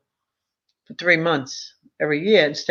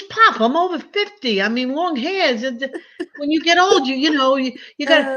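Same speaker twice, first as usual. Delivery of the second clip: much higher, pleading reasoning; pleading with Pop; 8 semitones higher than usual. Retold or imitated. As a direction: argue up high like a grown child to her dad. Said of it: "I says".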